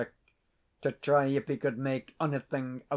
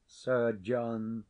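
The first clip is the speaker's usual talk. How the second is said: ordinary delivery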